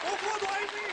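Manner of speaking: high, strained lament; mock despair. Comedian reprising the complaint, high mock lament. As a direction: cry it out pitifully to the sky.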